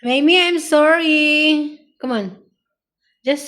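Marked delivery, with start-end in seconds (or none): 0.0-1.8 mild pet apology. Shown as a demonstration. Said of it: "Say it".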